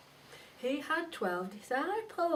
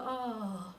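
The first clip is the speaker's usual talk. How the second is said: sympathetic group groan; 2 semitones lower than usual. Shown as a demonstration. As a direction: groan in sympathy for the hurt bear. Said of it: "And we'll all go".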